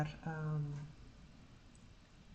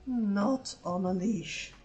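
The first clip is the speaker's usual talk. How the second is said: slow, drawn-out, louder exasperation; annoyed groan; 3 semitones higher, 4 dB louder, much slower than usual. Retold or imitated. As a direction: groan it out, fed up. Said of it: "And I just go like".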